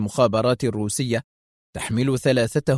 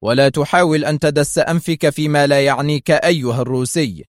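stern; 3 semitones higher, 4 dB louder than usual. Acted. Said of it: "قائلا في صرامة".

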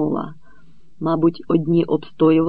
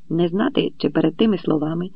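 plain reading voice

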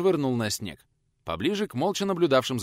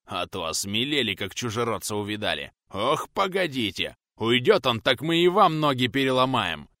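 blustering. Acted. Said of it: "продолжал храбриться задира".

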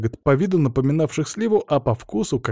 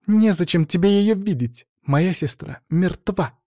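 shouting; 6 semitones higher than usual. A narrator's reading. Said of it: "закричала девушка-кролик".

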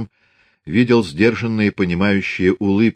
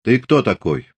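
commanding; 2 semitones higher than usual. Acted. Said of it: "властно спросил он".

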